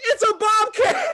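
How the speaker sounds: very high-pitched, loud, startled yell. Retelling a video of a man holding something up: imitating a man yelling. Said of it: "holds it in the air and yells".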